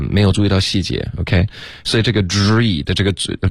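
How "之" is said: 之 with an audible slide of the lips; lip glide. Shown as a demonstration. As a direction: let the lips glide through 之. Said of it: "嘴唇的滑动要注意". (“之”嘴唇要滑动)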